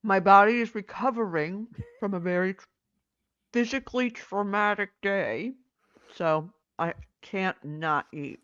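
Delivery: talking while chewing; mouth full. Real, not acted. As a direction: speak through a mouthful of food. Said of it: "food falling out of her mouth".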